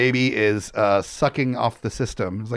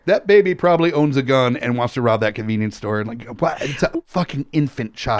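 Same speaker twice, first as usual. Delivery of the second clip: pro-life voice. Retold or imitated. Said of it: "Is that your pro-life voice?".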